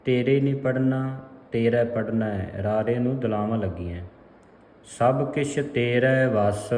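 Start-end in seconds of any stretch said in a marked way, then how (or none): 5.0-6.7 slow reading resting on ਵਸ; measured phrase closed by ਵਸ; pause after ਵਸ. Shown as a demonstration. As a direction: land firmly on ਵਸ, then pause. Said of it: "ਇੱਥੇ ਵਿਸਰਾਮ ਹੈ".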